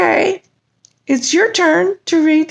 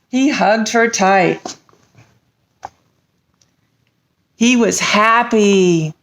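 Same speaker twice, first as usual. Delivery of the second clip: dragon voice reading; 7 semitones lower than usual. Acted. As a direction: read it low like a gentle dragon. Dragon reads story.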